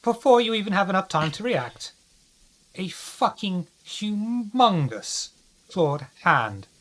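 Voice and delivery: tense storyteller build-up; dramatic game master narration. A narrator's reading. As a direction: describe the attack with suspense. GM describes monster attack.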